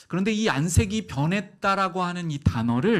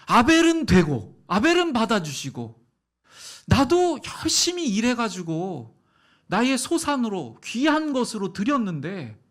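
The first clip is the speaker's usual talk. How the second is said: louder, higher aggrieved protest; Cain's indignant complaint; 6 semitones higher, 5 dB louder than usual. Retold or imitated. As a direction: argue your case as wronged Cain. (억울함에 목소리 높여 항변하듯)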